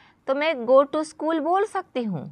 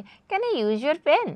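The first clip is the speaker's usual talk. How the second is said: slow, higher, sweet and polite request; asking very sweetly; 5 semitones higher, much slower than usual. Shown as a demonstration. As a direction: ask for the pen with lots of affection. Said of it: "बड़ा प्यार से बोलोगे".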